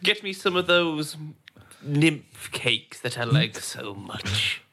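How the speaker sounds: fussy breakfast orderer. Acted. Same character orders cakes.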